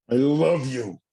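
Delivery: a reluctant declaration, pushed out high; high, odd I love you. Shown as a demonstration. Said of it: "I had to work on that one".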